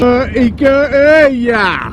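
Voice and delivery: high, slow sing-song call; high sing-song echo. Pretend.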